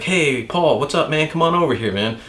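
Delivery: hustle the passer-by like a boardwalk game worker; carnival barker. Retold or imitated. Boardwalk game worker calling out to a passer-by, as a barker.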